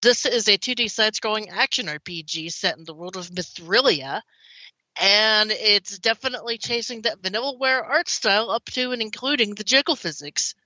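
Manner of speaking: talking around a cough drop; mouth full. Real, not acted. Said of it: "if it sounds like I have something in my mouth, I do".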